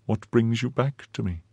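soft, hollow and faint. Acted. Milady, terrified, asks her husband faintly what he wants. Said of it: "in a hollow, faint voice".

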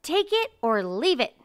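pompous archduke insisting; loud ultimatum. Acted. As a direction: push the ultimatum hard.

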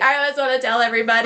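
mock-impatient outburst; annoyed impatience. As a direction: rush it out like a secret you're bursting to share. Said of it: "I got really annoyed".

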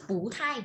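"bú thai", the first syllable lifted upward; changed tone on bú. Shown as a demonstration. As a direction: say "bú" with a rising tone before "thai". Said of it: "Em phải đổi chữ".

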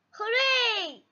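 high, drawn-out cheer. Acted. Peppa wins another giant teddy, cheering. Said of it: "cheers Peppa".

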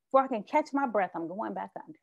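sighing, then fading to almost nothing; weary sigh. Shown as a demonstration. Describing the exhausting struggle to catch a breath, a tired sighing fade. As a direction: let it sink away, worn out from fighting the water. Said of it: "it's very tiring".

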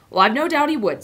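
horse talking through a mouthful; mouth full. Acted. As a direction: say it while chewing food. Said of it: "still with his mouth full".

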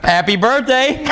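high, slow mock birthday greeting; hammed-up sultry wish; mock seductive. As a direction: purr it like a flasher's punchline. Rick revealing the bow.

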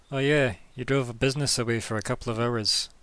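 put-on noodle seller with a Brooklyn accent. Noodle seller to customers over lost business, Brooklyn accent. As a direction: grumble it with a hint of Brooklyn. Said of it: "But in a Brooklyn accent".

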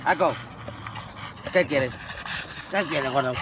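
high, loud doting on the dog; excited pet talk. Real, not acted. Man greeting his dog Ako with loud, high doting baby talk. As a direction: coo over the dog eagerly.

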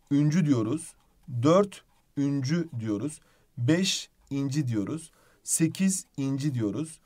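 slow, with each number and its suffix split apart; slow, spelled-out suffixes. Shown as a demonstration. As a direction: dictate each suffix slowly to the class. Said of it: "şuna da dikkat edin". (ekleri tek tek yavaşça heceleyerek okuma)

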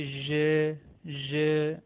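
"ज" said like s in pleasure; Turkish J. Shown as a demonstration. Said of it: "ना ही जीम के जैसी sound". ("ज" प्लेजर वाली ज़ आवाज़)

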